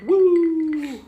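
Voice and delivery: loud high woo; excited cheer. Real, not acted. Cheering his return.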